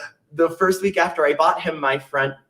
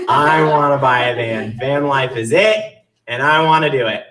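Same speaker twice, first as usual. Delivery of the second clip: laughing; 4 dB louder than usual. Retold or imitated. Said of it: "I've decided".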